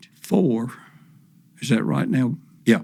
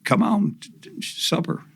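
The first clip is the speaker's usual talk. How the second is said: high, calling out across the yard; sing-song call to come eat, rising high; mock holler; 8 semitones higher than usual. Mom calling her daughter in for supper, imitated high holler. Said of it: "was hollering".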